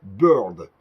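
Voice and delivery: English name in a French accent, drawn out; careful, stretched attempt at an English accent. Real, not acted. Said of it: "Excusez-moi pour mon accent anglais".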